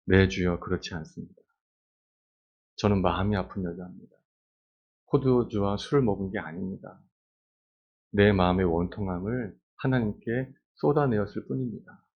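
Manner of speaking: soft, earnest plea; humble, sincere. Acted. Hannah answers priest Eli, humble and sincere. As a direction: answer gently, with humility. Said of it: "겸손하게, 네, 진실하게".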